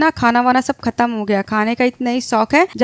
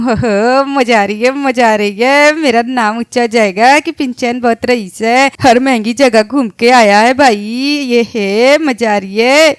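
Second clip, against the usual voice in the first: excited cheering; 3 dB louder than usual. Acted. Boy boasting about London trip.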